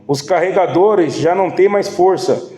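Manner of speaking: slow, measured Bible reading from the pulpit; scripture reading. Acted. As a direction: read the verses deliberately, unhurried. Reads Nehemiah passage aloud. (leitura bíblica lenta e pausada)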